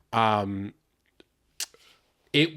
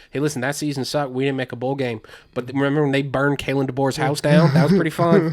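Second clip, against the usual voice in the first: gloating rival fan; 2 semitones higher, 6 dB louder than usual. Retold or imitated. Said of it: "It's like".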